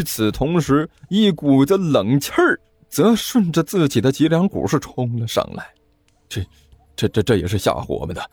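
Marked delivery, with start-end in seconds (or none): 6.3-8.2 stammering false bravado; 强装镇定. Acted. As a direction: put on courage while tripping over words. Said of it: "勉强保持着镇定说道". (结结巴巴地勉强装镇定)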